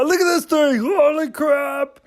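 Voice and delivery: high-pitched amazed exclamation; excited discovery. Real, not acted. Vlogger showing new makeup item, excited.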